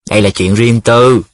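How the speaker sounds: mildly self-important protest. Acted. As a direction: declare it with some importance. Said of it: "Rồi Mẫn lên giọng". (lên giọng)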